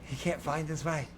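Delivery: leaning in, sly. Acted. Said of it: "she leans in a bit and she's like".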